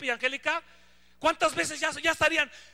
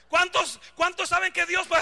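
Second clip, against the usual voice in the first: mock hype preacher; 5 semitones higher, 5 dB louder than usual.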